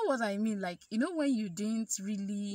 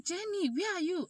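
voicing the teacher; 10 semitones higher, 3 dB louder than usual. Teacher calling on the phone.

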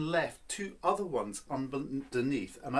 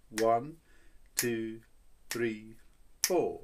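even count of four on the beat; 3 semitones lower, much slower than usual. Shown as a demonstration. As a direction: count one, two, three, four steadily. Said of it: "Here's your beat".

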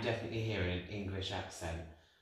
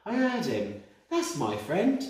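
channelled spirit; 7 semitones higher, 5 dB louder, slower than usual. Retold or imitated. Medium voicing the spirit's words.

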